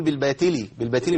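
faulty بالباطل with plain ت replacing ط; ta for emphatic ta. Shown as a demonstration. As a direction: say بالباطل as bil-batili, light t. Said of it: "أبدلت الطاء بتاء".

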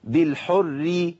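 بالحر slow, thin r before ee; light raa. Shown as a demonstration. Teacher models tarqiq, slow thin r in بالحر. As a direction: hold بالحر with a light double r. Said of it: "والراء المشددة بالكسر ترقق".

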